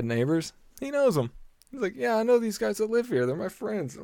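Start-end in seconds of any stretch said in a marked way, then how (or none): 2.0-4.0 high-pitched mocking impression of a braggart; imitated bragging man. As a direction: mimic him boasting in a raised pitch. Imitates drunk man bragging about neighbors.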